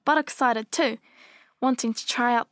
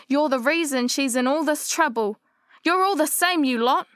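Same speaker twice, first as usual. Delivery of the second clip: angry shout; 3 semitones higher than usual. Retold or imitated. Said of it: "she shouted".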